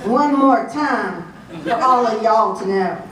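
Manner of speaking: light Southern US accent. Shown as a demonstration. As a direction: say it with a touch of Southern twang. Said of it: "as I say in my Southern accent".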